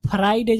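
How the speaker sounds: फ्राइडे said as "fa-RAI-day"; "faraiday" for फ्राइडे; laughable mispronunciation. Shown as a demonstration. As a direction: split the fr of फ्राइडे with a vowel. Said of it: "लोग हंसेंगे".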